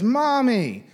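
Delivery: a hint of a child tattling; tattling little daughter. Daughter running to her mom to tell on Daddy, lightly voiced tattling. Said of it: "she was running to her mom".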